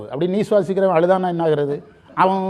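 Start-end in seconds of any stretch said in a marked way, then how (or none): 2.1-2.4 brief pretend wail; mock crying. Teacher imitates a newsreader crying over flood deaths, mock sob. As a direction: put on a newsreader breaking into sobs. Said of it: "அப்படின்னு அழுதா".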